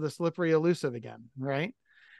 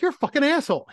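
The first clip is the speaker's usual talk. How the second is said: retold angry yell, much higher and louder; imitated yell; 10 semitones higher, 6 dB louder, faster than usual. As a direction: mimic her yelling at you. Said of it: "she's like".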